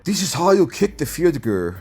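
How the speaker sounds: mock the kicker with a put-on Asian accent; Younghoe Koo in a mock Asian accent. Narrator voices the kicker mocking the Vikings, mock Asian accent. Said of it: "doing that Asian accent".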